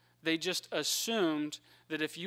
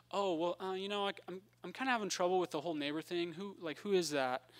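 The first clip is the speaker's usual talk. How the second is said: lightly voiced lawyer, higher and hesitant; hedging lawyer; 4 semitones higher than usual. Lawyer questions Jesus about the neighbor thing, lightly acted hedging. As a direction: stumble into the question, pitched a little up.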